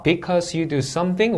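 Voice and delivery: "because you do something" lifted at the end; rising tune. Shown as a demonstration. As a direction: read "something" with the pitch going up. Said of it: "올려 읽고요". ("something"을 올려 읽기)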